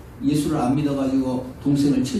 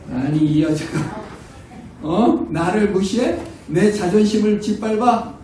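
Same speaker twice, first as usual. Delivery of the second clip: offended husband; 4 semitones higher, slower than usual. Retold or imitated. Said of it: "남편이 어떻게 해야 돼요".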